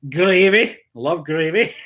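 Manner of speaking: goofy, relished "Gravy" with rising ends; playful funny pronunciation. Shown as a demonstration. Streamer gushing about Thanksgiving dinner, playfully silly. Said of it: "I have to say it like that".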